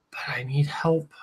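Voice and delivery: whispered plea. Real, not acted. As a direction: breathe it out, unvoiced. Drunk plea for help on stream.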